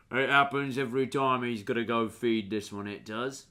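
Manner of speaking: lightly put-on ranger character; lightly voiced ranger. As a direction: play a mildly amused dog handler. GM plays the ranger.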